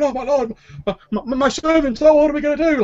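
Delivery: very high-pitched mock crowd panic; flustered, stammering high wail; panicked shouting. Whole room erupting at the bad news, mock high panic. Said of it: "like, shouting and going".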